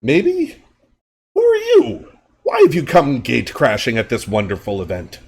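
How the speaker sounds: a creepy host feigning friendliness; owl creep voice. Acted. Owl-faced creep greets armed father, squeaky and sly. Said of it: "and he goes".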